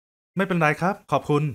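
slow, deliberate brush-off in his own voice; hurried brush-off. Acted. Man cutting the conversation short, slow and plain-voiced. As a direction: cut her off politely, drawn out.

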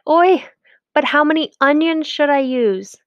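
high, worried wife's voice; fretting Fagel. A narrator's reading. Wife fretting over onions, high and worried. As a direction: sigh it out in worry.

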